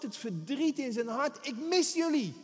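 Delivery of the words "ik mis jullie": lamenting God. Acted. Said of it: "Dus de Heere die klaagt, je hoort de smart".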